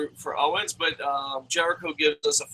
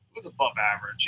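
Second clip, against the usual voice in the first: deadpan repeat; 8 semitones lower, 9 dB quieter, faster than usual. Shown as a demonstration.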